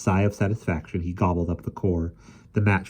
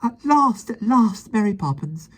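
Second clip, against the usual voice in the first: murmured; 5 dB louder, slower than usual. A narrator's reading. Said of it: "he murmured".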